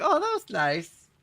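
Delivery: high, slow squeak of delight; a dad's high touched squeak. Retold or imitated. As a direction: squeak it out, moved by the compliment. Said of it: "And I was like".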